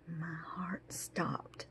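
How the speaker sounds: slow, very soft and low; stunned, slow hush; hushed dread. Acted. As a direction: let the voice drop away in dread. Dread as riders approach.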